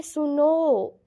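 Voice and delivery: सुनो called out with the last vowel stretched long; drawn-out call. Shown as a demonstration. Teacher shows a three-beat vowel, calling सुनो long. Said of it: "खींच दिया उस आवाज़ को".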